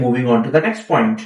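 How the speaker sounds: slow, even "Moving on to the next point"; smooth filler phrase demo. Shown as a demonstration. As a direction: say it slowly as a smooth bridge instead of pausing. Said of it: "उसकी जगह आप बोला करें".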